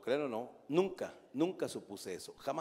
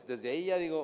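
ordinary talk, nothing marked

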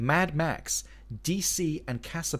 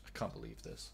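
whisper; 19 dB quieter than usual. Real, not acted. Despair at no Space Jam.

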